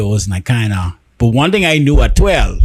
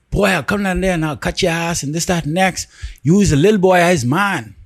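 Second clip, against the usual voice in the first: retold threat in a raised, higher voice; threatening father; 5 semitones higher than usual. Father on the phone threatens his twelve-year-old son, angry. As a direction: mimic the father's angry brush-off, pitched up.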